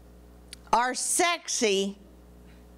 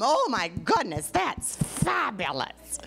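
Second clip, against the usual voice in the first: mock gushing; slower than usual. Mocking what people say.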